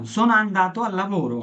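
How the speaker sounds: slow, careful Italian example; teacher's slow demo line; slow example sentence. Shown as a demonstration. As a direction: say each word slowly for learners. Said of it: "যেমন ধরেন আমি বললাম".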